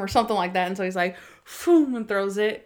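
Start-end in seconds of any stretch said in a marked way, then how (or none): 1.6-1.9 loud, high whooshing boom; imitated throw noise. Host imitating a hard throw, loud whoosh. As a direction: burst it out as a sound effect.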